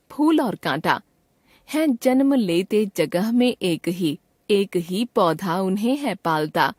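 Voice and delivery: measured, slow reading of a rhymed Hindi poem; slow poem recitation. Acted. Teacher demonstrating to students, slow poem recitation. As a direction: recite each line slowly as a sample for students. Reads sample poem aloud.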